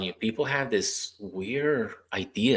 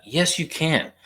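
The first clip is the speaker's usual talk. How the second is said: higher, pushing cheer; insistent encouragement; 8 semitones higher, 3 dB louder, slower than usual. Retold or imitated. Therapist countering a patient's "no I can't", high eager insistence. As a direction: insist they can, rallying them.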